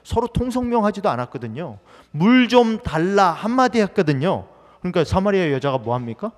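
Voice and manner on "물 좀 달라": slow request. Acted. Jesus asks for water again.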